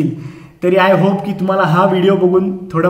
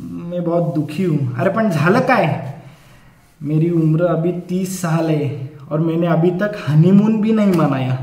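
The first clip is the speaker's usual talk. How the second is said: mock sobbing contestant; 3 semitones lower, 3 dB quieter than usual. Crying contestant on show.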